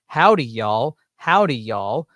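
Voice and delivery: loud, drawn-out Southern howdy; thick Southern accent. Shown as a demonstration. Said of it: "I have a thick Southern accent".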